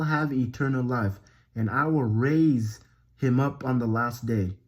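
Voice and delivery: emphatic Bible reading, stressed key words; scripture reading. Acted. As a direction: proclaim the verses with steady conviction. Reads scripture aloud.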